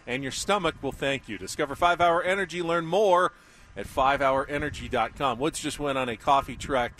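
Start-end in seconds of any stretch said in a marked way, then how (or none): 0.0-5.4 radio ad read. Acted. Live sponsor read on air.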